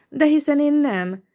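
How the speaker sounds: protest, irritated and quick; annoyed. A narrator's reading. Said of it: "kezdte a lány bosszusan".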